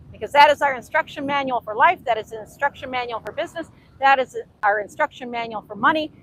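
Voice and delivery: normal talking voice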